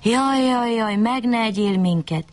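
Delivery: high, pleading wail of a fox; begging fox. A narrator's reading. Fox on its hind legs begs the wolf, pleading. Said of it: "s úgy könyörgött a farkasnak".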